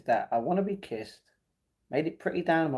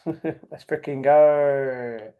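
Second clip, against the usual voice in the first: laughing cheer; 5 dB louder, much slower than usual. Real, not acted.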